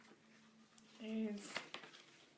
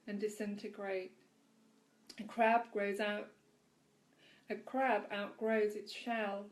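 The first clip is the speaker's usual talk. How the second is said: measured, projected read-aloud voice; devotional reading; 7 dB louder than usual. A narrator's reading. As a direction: read it out clearly, with deliberate weight. Continues reading the devotional passage.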